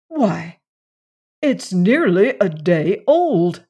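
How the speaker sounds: slow, heavy with astonishment. A narrator's reading. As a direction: weigh each word slowly. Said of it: "speaking slowly".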